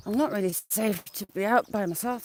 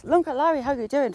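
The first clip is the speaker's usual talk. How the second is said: higher-pitched hello to a viewer; cheery greeting; 6 semitones higher than usual. Real, not acted. Vlogger greets a viewer joining the stream, cheery greeting. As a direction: call out a friendly greeting.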